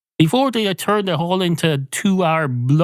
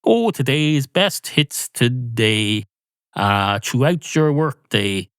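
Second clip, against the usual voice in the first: slow, drawn-out jingle read; lightly mimicking a station jingle; mock radio jingle; slower than usual. Imitating a radio jingle slowly, light and mocking. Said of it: "as automatic as those jingles".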